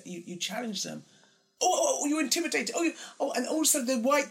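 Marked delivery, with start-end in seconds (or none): 1.6-4.3 high, loud mock wail of a tearful white woman. Imitating a tearful colleague, mock upset. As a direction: ham up the injured shock. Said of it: "when all of a sudden you say".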